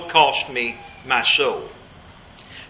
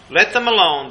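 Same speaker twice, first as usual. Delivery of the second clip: higher and louder, driving it home; firm louder repeat; 4 semitones higher, 5 dB louder than usual. Retold or imitated. Preacher voicing Jesus's refusal to back off, raised louder. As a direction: repeat it with force, no backing off. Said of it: "Jesus said".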